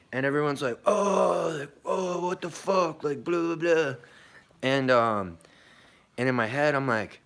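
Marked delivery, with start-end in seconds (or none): 0.8-3.9 high, whiny mock complaining; mocking outrage. Boat passengers reacting to the captain, high mock whine. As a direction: ham up the crowd's exasperated whining.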